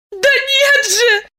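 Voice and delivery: high, slow protesting shout. Acted. Masha pushing away Diana's hand, high slow shout. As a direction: throw it out in protest. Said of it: "закричала Маша".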